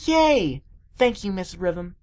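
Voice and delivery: high, loud yay; excited cheer. A narrator's reading. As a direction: cheer at getting your wish. Pupil cheers at permission.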